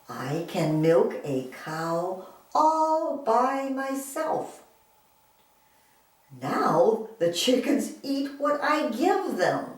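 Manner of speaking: put-on slow, deliberate reading to children; spaced-out words, lively storybook tune; expressive story reading. Shown as a demonstration. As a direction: read it out slowly with lilting expression. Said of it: "I will read it with good expression".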